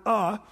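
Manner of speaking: the small word "a" set apart and stressed. Shown as a demonstration. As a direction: lean on the word "a". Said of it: "emphasis there on the word".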